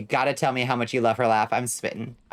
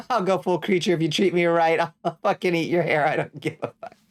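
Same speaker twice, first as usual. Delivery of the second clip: mock feral creature; 5 semitones higher than usual. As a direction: play a feral little creature, threatening for fun. Threatens to go full creature.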